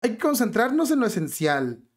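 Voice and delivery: lightly acted captain, musing then instructing; mock ship captain. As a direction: give orders as a captain ignoring danger. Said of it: "al capitán".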